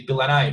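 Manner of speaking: "Bill and I" run together like one long word; words linked as one. Shown as a demonstration. Teacher gives an example sentence, "Bill and I" joined as one word. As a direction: link "Bill and I" into a single word. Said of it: "as if it were just one".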